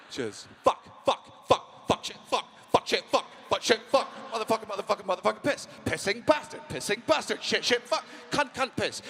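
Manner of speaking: a drum kit of swear words; rhythmic swearing. Shown as a demonstration. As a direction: chant the swears in a steady rhythm. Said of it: "It's musical, and it's rhythmic".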